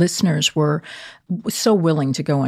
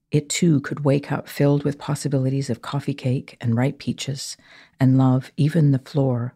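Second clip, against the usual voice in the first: poem reading. Acted. Reads a poem aloud.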